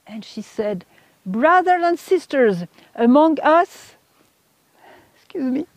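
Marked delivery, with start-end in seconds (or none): 1.3-4.0 higher, slow, mild mock cry to a gathering; retold screaming. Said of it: "she started screaming". 5.2-5.7 real choked-up aside, higher and quieter; emotional. Real, not acted. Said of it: "I'm still emotional".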